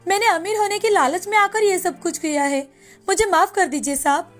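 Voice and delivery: understated tearful begging; mild pleading. Acted. Maya begging the officer's forgiveness, mildly pleading. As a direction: plead for forgiveness, pitch lifting a little midway. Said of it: "गिड़गिड़ाती है".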